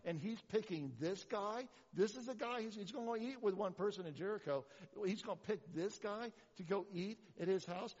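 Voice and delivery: acted crowd indignation building into protest; mock-offended, pressing each complaint; indignant. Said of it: "And they are mad".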